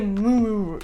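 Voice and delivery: low, drawn-out mumble under the breath. Dodging a question about where you were: mumbled 'moo' under the breath. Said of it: "you will mumble the answer under your nose".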